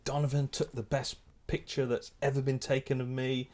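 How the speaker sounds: deliberate weight on each word from "Donovan" to "me"; punchy emphasis. Retold or imitated. Actor warming to the photographer, every word emphasised. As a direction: imitate him stressing every word of "Donovan took the best picture". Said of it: "he emphasised every word with a play punch".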